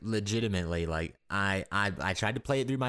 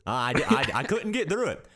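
higher, halting presidential impression; Obama; 6 semitones higher than usual. Podcaster airs hopes for the game, mock-presidential voice. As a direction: put on a president's measured, pitched-up voice. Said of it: "I haven't done my Obama one yet".

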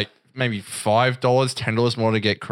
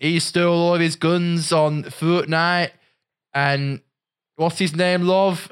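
higher, slow mock British dad; British accent; 7 semitones higher, slower than usual. Cousin asks crying son on video, imitated British accent. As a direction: put on a British parent's voice, pitched up. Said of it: "British accent".

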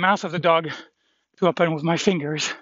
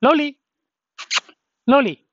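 calling out loud; 9 semitones higher, 5 dB louder than usual. Real, not acted. Calling the dog.

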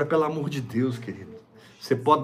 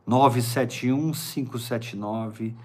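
staccato; slower than usual. Shown as a demonstration. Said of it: "Eu vou falar bem pausadamente pra você anotar".

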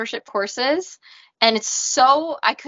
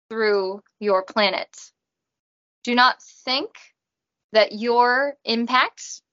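Robot voice. Acted. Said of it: "I talk in a robot voice".

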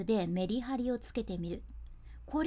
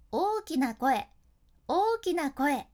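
louder, projected to carry; big voice; 3 semitones higher, 5 dB louder, slower than usual. Shown as a demonstration. Teacher demonstrating the big voice, calling across the room. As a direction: call to someone three meters away. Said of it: "大きな声を出すってなると".

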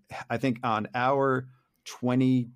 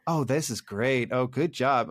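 fake niceness; slower than usual. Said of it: "nice is just".

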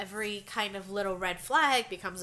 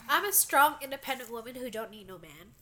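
proud declaration through a blocked nose; congested; 2 semitones higher than usual. Real, not acted. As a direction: sound comically congested. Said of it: "Who sounds really congested right now".

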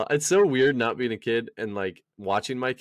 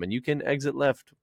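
flight attendant. Pretend. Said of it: "I sounded like a stewardess".

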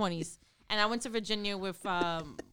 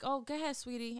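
put-on sweet to a child; 3 semitones higher, 7 dB quieter than usual. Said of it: "and I'm like".

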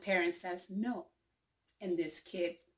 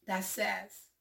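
ordinary talk, nothing marked

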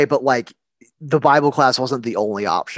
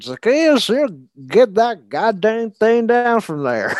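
scolding shout; 9 semitones higher than usual. Pretend. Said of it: "I said".

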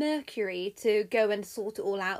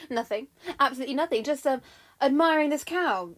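flustered, louder denial with a hesitation; guilty; 3 semitones higher, 6 dB louder, faster than usual. Acted. Jupiter caught out by his wife, guilty and flustered. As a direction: cover up guiltily, growing louder. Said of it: "quickly and very guiltily".

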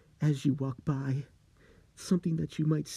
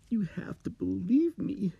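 urgent whisper; 8 semitones higher than usual. Acted. Steve grabs his shirt.

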